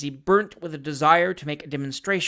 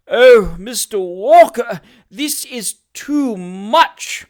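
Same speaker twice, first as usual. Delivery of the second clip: slow, higher, ending in a whisper; fawning hypocrite, faking tears; 5 semitones higher, 9 dB louder, much slower than usual. Acted. Job Trotter pretends to weep over Sam, faked tearful whisper. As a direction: sigh it out as if overcome.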